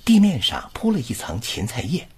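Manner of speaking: one flowing recital breath; model reading. Shown as a demonstration. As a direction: read it in one go, smoothly linked. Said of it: "跟读". (一气呵成地示范朗读)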